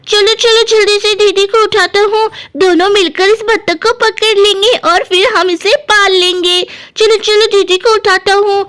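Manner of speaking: a touch of an eager little brother; lightly voiced Guddu. Guddu wakes his sister to see the duck, mildly eager. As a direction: lightly urge a sleeping sister up.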